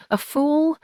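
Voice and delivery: high incredulous shout; outraged shouted question. A narrator's reading. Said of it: "I shouted".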